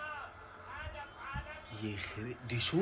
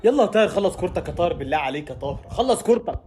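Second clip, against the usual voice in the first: louder, higher begging; pleading shout; 6 semitones higher, 4 dB louder than usual. Real, not acted. Fan begging Taher to shoot, pleading shout. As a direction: urge him to shoot.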